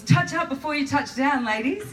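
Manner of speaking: high flight attendant sing-out to colleagues; cabin crew saying. Retold or imitated. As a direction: chirp it like an airline crew catchphrase. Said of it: "sayings while I was at Virgin Blue".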